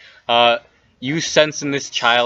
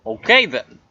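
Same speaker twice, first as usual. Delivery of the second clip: huffy, higher weasel voice; weaselly voice; 5 semitones higher than usual. Acted. Weasel brushing off the player who won't share, huffy weaselly voice. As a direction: put out, like a snubbed weasel. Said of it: "It's a weaselly voice".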